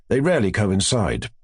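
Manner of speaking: ordinary delivery, nothing marked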